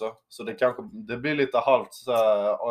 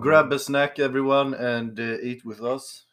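host voice; 3 dB louder, slower than usual. Pretend. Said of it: "Jag vet inte varför jag gick international".

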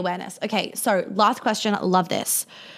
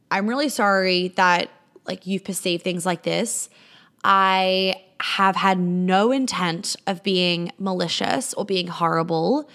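slow, deliberate apology; measured apology; slower than usual. Acted. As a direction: say sorry slowly, in measured phrases. Models a calm apology to someone.

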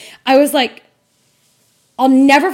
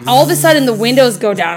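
usual speaking voice

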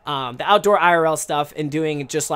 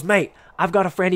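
badly attempted British accent; hammed-up amateur British accent; 2 semitones higher than usual. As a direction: imitate a British guy, not very well. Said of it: "a British guy".

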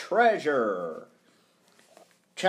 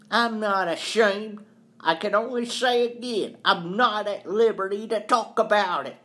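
higher-pitched, insistent accused man; defensive caretaker; 6 semitones higher than usual. Acted. Accused caretaker refuses to tell, defensive. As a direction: hold your ground with voice raised in pitch.

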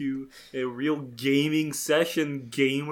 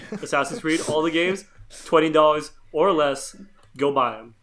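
excited pitch; 2 semitones higher, 6 dB louder than usual. Pretend. Hyped sales pitch.

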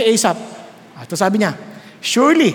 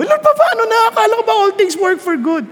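whining prayer; 9 semitones higher than usual. Acted. Voicing a distressed believer.

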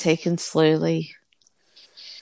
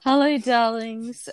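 slow, higher sultry purr of a greeting; breathy vintage purr; 5 semitones higher, 3 dB louder, slower than usual. Pretend. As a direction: purr it out slowly like an old film star. Repeated greeting, drawn out higher.

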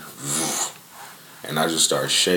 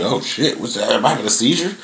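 higher, alarmed inner voice; retold panic; 4 semitones higher, faster than usual. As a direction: voice the scare of thinking it's a seizure. Retold fear of having seizure.

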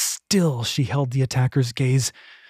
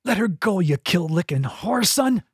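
put-on angry boy shout; 4 semitones higher than usual. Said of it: "A boy's voice".

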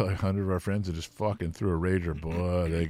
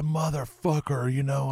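slow, higher mock rocker; imitating a rock band; 6 semitones higher, slower than usual. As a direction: drag out the curse. A rock band voiced.

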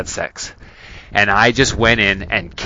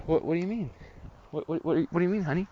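mock innocent surprise; 7 semitones higher, 10 dB quieter, much faster than usual. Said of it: "And I said".

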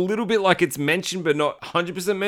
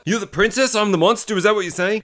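higher-pitched mock indignation; mildly aggressive retort; 5 semitones higher than usual. Monster confronting the woman who judged him, mildly aggressive. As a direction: act out an affronted challenge, lightly. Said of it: "real aggressive".

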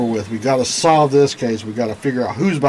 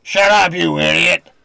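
angry snap; 4 semitones higher than usual. Acted. One thug snaps at the other.

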